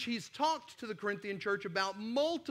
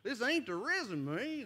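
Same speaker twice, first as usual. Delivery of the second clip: put-on Southern accent; 3 semitones higher than usual. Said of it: "my accent went out there for a minute".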